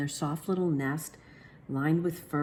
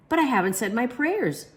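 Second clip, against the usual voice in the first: put-on child voice; 8 semitones higher, 4 dB louder than usual. Child stalling bedtime.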